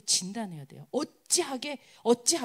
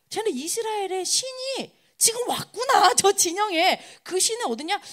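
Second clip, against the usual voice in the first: high, mock dismay; acted alarm; 6 semitones higher than usual. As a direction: imitate enemy troops realizing the danger. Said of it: "막 난리가 난 겁니다". (놀란 적군 흉내)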